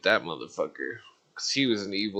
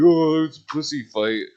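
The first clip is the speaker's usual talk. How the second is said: higher, louder put-on jeering voice; mock friend voice; 6 semitones higher, 7 dB louder than usual. Friend watching the fight, loud high jeering voice. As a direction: jeer like a spectator. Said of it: "He's like".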